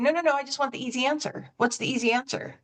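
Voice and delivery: insistent client cutting the coach off; impatient insistence. Acted. Acts out impatient client refusing advice.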